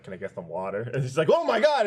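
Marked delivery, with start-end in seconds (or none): 0.0-0.8 low, quiet casual question; mock nonchalance. Casual request after sneaking up. 1.3-1.8 high-pitched mock fright; exaggerated startled cry; startled freak-out. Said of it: "loses her shit".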